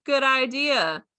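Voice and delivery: hammed-up surprise; mock realization. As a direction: act like a bright idea just landed. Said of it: "she's like".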